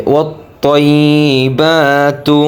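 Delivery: "ওয়াত-তৈবাতু" recited with a long "বা"; measured chant, "বা" held in "ওয়াত-তৈবাতু"; one-alif elongation. Shown as a demonstration. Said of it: "এক আলিফ টান হবে".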